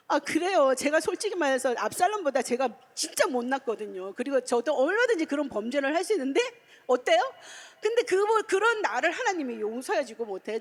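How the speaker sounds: preacher's fervent confession; impassioned. Real, not acted. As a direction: pour it out with passion.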